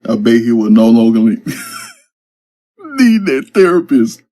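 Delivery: breaks into high laughter mid-word; whimsical laughing. A narrator's reading. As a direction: laugh your way through the end, pitched high. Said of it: "then Terrence whimsically says".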